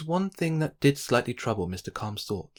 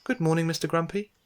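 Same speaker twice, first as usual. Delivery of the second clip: bright, raised friendly greeting; cheery call; 6 semitones higher than usual. A narrator's reading. Mister Calm greeting his grumpy neighbour, calling out cheerily. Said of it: "called Mister Calm with a cheery wave".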